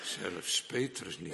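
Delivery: ordinary talk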